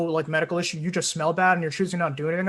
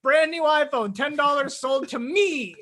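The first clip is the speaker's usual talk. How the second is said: auctioneer; 7 semitones higher, slower than usual. Pretend. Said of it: "if you're auctioning something".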